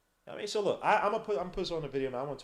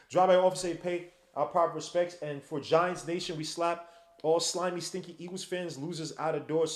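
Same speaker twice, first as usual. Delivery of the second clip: put-on Italian accent. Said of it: "why am I saying an Italian accent".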